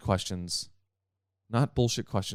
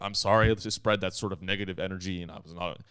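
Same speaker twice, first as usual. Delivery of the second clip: subdued mock apology, dropping away softly; needless apology; 3 semitones lower, 3 dB quieter, faster than usual. Teacher apologizing to students for negative energy, meek and contrite. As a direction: imitate a meek, over-sorry teacher. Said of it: "apologizing for something he didn't do".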